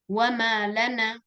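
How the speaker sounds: "wa malana" slowly, weight on "ma" before "lana"; slow "wa malana", split as wa-ma, lana; read as two words. Shown as a demonstration. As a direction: mark the word break in "wa ma / lana". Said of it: "tulis wa ma spasi lana, cara membacanya".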